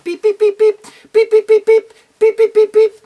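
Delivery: high, loud little chick peeps. Acted. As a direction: chirp like tiny chicks. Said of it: "the chicks going".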